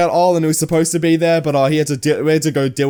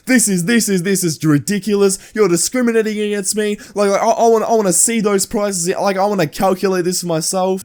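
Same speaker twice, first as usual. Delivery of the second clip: higher-pitched mock complaint; indignant Karen; 3 semitones higher than usual. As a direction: imitate an aggrieved customer protesting the bill. Retold Karen arguing over the bill.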